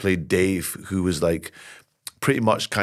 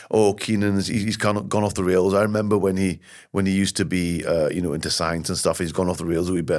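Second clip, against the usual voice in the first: gentle shopkeeper voice; 3 semitones lower than usual. Acted. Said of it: "we say".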